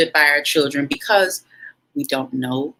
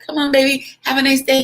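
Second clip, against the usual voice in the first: imitating the husband; 8 semitones higher, faster than usual. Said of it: "And he's like".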